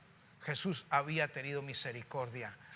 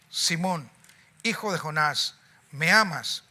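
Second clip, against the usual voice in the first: louder third asking; 7 dB louder than usual. Acted. Jesus asks Peter the third time.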